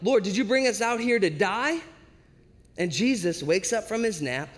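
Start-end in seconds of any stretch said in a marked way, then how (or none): 0.0-1.8 higher, rising acted plea; mock-panicked accusing question; terrified plea. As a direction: plead upward as if facing death. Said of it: "terrified for their life".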